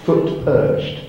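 measured storytelling read-aloud; story reading. A narrator's reading. Author reading her memoir to the audience, storytelling voice. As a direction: read the excerpt like an audiobook.

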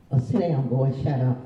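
a mild mock scold at a child; harsh scolding. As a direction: brush a kid off, curt and cross.

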